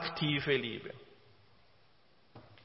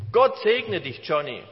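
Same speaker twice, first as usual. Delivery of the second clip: cheerful. Retold or imitated. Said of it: "Er sagte nur fröhlich".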